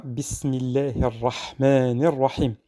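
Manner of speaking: Quran recitation; recited verse. Shown as a demonstration. Teacher reading the verse to students, recited. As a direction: recite it as in prayer. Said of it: "Et on a".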